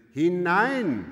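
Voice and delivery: loud, forceful command; strenger Befehl. A narrator's reading. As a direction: call out the order with full force. Overseer pushes maid through door. (laut befohlen)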